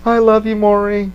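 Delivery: lightly voiced giddy Joker; mock manic greeting; Joker on the talk show.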